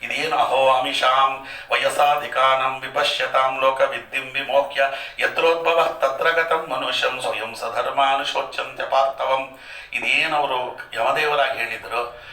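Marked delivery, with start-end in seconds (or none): 0.4-9.6 measured, intoned shloka recital; Sanskrit verse recitation. Acted. Preacher quoting scripture to listeners, intoned recital.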